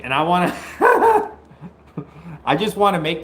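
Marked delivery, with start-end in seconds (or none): 0.6-1.3 high, loud burst of laughter; shocked laugh. Real, not acted. Streamer reading a crazy message, shocked laugh. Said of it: "somebody just messaged me something crazy".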